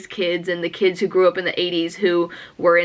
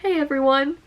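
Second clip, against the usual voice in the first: a light, higher take on Spider-Man's "Hey, everyone"; a hint of Spider-Man's bright greeting; imitating the trailer line; 5 semitones higher than usual. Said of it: "where he looks up and he says".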